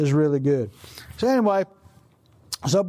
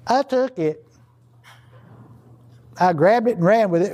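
hammed-up confession; 2 semitones higher, 5 dB louder than usual. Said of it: "Achan's words".

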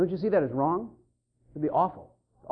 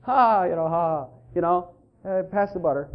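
calm and casual; 4 semitones lower than usual. Retold or imitated. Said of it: "as calm as can be".

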